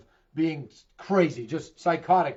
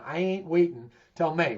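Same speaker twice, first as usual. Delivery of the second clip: Boston accent. Shown as a demonstration. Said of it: "that Boston accent".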